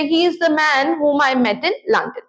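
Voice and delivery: slow, even model sentence read in one breath; deliberately slow and steady, one breath. Shown as a demonstration. Teacher models a sentence for learners, slowly. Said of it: "इस sentence को एक बार में बोलूंगी".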